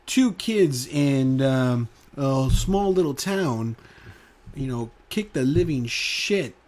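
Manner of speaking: slow, announcer-style news read; slow and measured like a TV anchor. Pretend. Imagining a Channel Five anchor reporting it, slow mock news read. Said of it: "I wish I hear that in the news".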